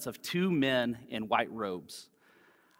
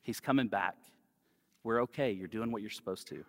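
reassuring; 3 semitones lower, 5 dB quieter than usual. Acted. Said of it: "to remind us".

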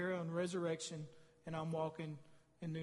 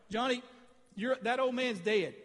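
emphatic declaration; 3 semitones higher, 4 dB louder than usual. Retold or imitated. Declaring to an inmate at his baptism.

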